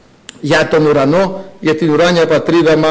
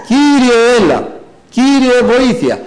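calling out to God; 7 semitones higher, slower than usual. Shown as a demonstration. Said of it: "να φωνάζουμε προς τον Κύριο".

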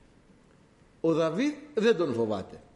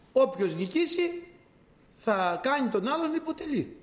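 higher challenging call of the giant Goliath; boastful giant's taunt; 4 semitones higher than usual. Retold or imitated. Preacher voicing the giant taunting Israel, higher mock shout. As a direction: hurl a swaggering dare across the battle line. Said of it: "άρχισε να φωνάζει".

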